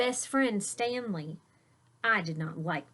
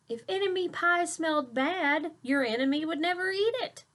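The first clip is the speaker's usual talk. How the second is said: higher, knowing dad voice; wise dad; 8 semitones higher than usual. Acted. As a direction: explain it like a clever dad. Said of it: "he said".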